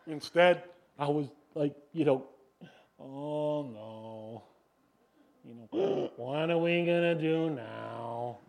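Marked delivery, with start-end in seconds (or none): 3.0-8.4 gasping, slow, hammed-up panic; imitating his own freak-out, gasp and all; mock panic. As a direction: act out a panicked husband with a gasp. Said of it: "I freaked".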